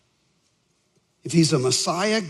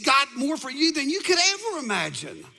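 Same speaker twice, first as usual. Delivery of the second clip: higher-pitched, impassioned sermon delivery; fervent preaching; 8 semitones higher than usual. Real, not acted. Preacher challenging people who seek others' approval, fervent preaching. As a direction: drive the point home to the congregation.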